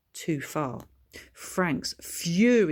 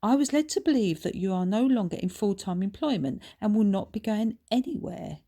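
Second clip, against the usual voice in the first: put-on snooty posh boy; 5 semitones higher, 3 dB louder, faster than usual. Posh son belittling father.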